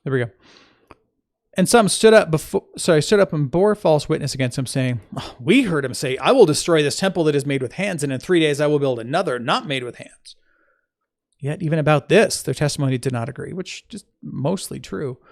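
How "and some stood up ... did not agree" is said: clear, emphatic Bible reading; scripture reading. Acted. Teacher reading the Gospel to listeners, measured scripture reading. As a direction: read the passage aloud with firm opening stresses.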